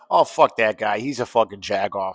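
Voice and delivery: put-on tipsy Chicago accent, griping; light Chicago accent after a few beers. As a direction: do a beery Chicago grumble. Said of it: "my Chicago accent comes out".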